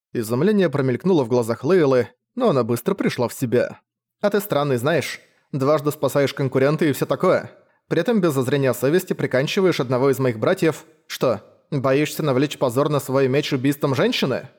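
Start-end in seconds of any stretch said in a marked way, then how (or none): 4.2-14.5 raised, needling huntress; mocking young woman. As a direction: poke at him with scorn. Leila needles the hunter.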